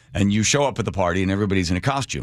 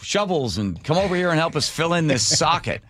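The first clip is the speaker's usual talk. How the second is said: friendly cells; 6 semitones higher than usual. Pretend. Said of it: "whatever they need".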